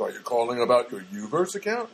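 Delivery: automated phone-menu imitation; robot guy. Phone robot asking about an account, lightly robotic. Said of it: "the robot guy goes".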